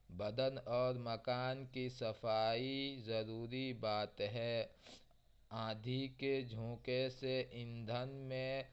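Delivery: each sentence read slowly and repeated; slow dictation reading. Acted. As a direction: read aloud slowly for learners, x0.6. Teacher reads sentences slowly. (बच्चों के लिए धीमा पाठ)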